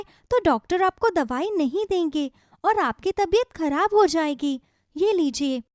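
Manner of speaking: put-on a young girl reassuring granny; gentle child voice; little girl. Shikha speaks as child.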